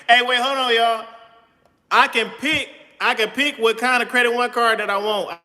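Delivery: thrilled at the news; excited. Real, not acted. Excited at card choice.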